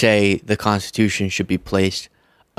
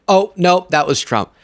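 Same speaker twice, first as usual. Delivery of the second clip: feigned surprise; 6 semitones higher than usual. Pretend. Feigned realization in sarcastic bit.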